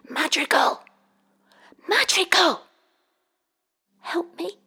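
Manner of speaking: high, loud cries for help; shouting for help from the bottom of a cliff; desperate shout. A narrator's reading. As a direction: call out with every last bit of strength. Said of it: "he shouted out in his head".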